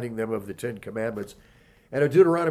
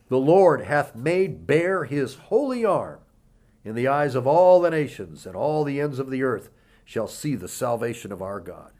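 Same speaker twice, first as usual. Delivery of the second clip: scripture reading; 4 dB louder than usual. Acted. Reads scripture aloud.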